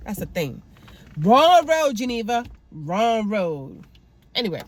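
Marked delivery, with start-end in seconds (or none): 1.2-3.8 mock warning shout; scolding call. Real, not acted. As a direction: call out to her like she's making a mistake. Scolding a character.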